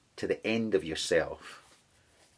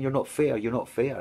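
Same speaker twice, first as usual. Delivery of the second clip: put-on toddler complaint; 4 semitones higher than usual. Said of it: "like when a toddler is making his case".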